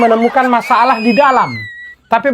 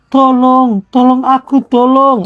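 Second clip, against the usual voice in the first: mock help shout; slower than usual. Shown as a demonstration. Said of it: "teriak seperti tadi".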